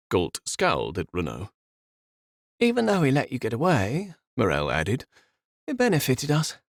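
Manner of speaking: lightly voiced scheming villainess; villainous Morel. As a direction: savour the reveal.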